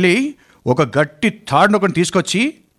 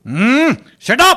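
drawn-out shut up; 6 semitones higher, much slower than usual. Acted. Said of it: "అబ్బబ్బబ్బ, ఆహా".

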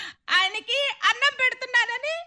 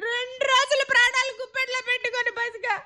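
tearful complaint. Acted. Wife tearfully complains of mother-in-law.

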